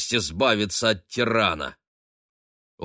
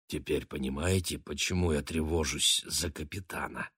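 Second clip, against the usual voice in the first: much softer, confiding murmur; hushed aside; 4 semitones lower, 7 dB quieter than usual. A narrator's reading. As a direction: keep it low so nobody else hears. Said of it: "прошептал мистер Бернем".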